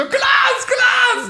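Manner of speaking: yelling a name very high and loud; panicked shouting. Retold or imitated. At the parking barrier, calling after his friend, panicked high shout. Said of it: "Du standest an der Schranke so".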